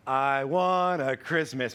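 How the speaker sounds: slow, careful childlike attempt; imitating son. Boy on laughing gas fumbling a song title, slow. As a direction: sound out the title like a little kid trying. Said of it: "He goes".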